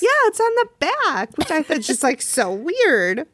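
tinny, thin sound with no bass; thin tinny mic sound. Real, not acted. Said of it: "Why do you sound tinny?".

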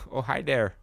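put-on Wisconsin accent, laughing hello; chuckled Wisconsin greeting. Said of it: "do the Wisconsin accent".

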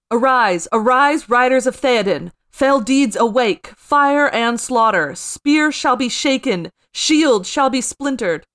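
loud, slow, rallying king's call; rally the riders to war; rousing battle cry. Acted. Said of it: "calls in a louder voice than any mortal man".

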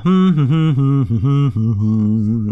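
short open hummed note; quick hum. Shown as a demonstration. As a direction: hum a quick little tune. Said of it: "doing just a quick little hum".

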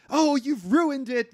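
mock wail that he ruined it; mock dismay. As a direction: drag it out like a theatrical actress. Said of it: "And she's like".

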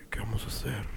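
soft, low, altered voice; imitated drunk girl. Very drunk girl propositioning him, hushed imitation. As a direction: quote her in a hushed murmur.

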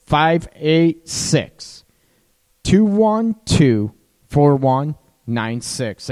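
slow, deliberate, each digit set apart; slow dictation. Shown as a demonstration. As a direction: read the number out slowly so they can write it down. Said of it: "write this down".

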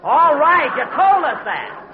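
loud and slow, fed up; exasperated shout. Acted. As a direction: snap back, out of patience. Exasperated at Phil repeating a joke.

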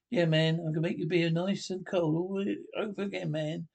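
a light, half-hearted Aussie twang on the bushman's promise; mock Aussie accent. The Aussie bushwhacker offering to cool the beers, mock Australian accent. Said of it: "I can't do the accent".

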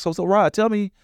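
high, chirpy imitation of the interviewer; mock recruiter voice. Imitating recruiter Megan on Skype.

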